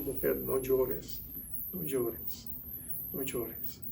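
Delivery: tender and loving. Retold or imitated. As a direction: comfort her as if stroking her hair. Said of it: "se lo dijo con ternura, con amor, con compasión".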